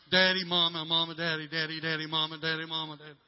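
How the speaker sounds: put-on nagging like a small child who won't stop; mock child calling.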